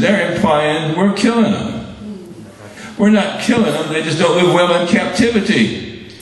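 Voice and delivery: put-on Southern accent. Retelling the police commissioner's chapel speech, mock Southern accent. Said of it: "he said it in his deep Southern accent".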